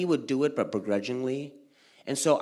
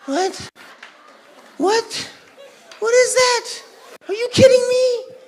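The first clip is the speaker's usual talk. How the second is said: outraged disbelief; 6 dB louder than usual. Real, not acted. Kid's outrage at gifts.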